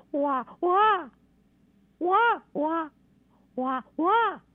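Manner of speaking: high mock baby wail, repeated; baby cry imitation. Shown as a demonstration. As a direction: wail like a newborn, pitched high. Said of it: "另外一个是". (模仿另一种婴儿哭声，高音)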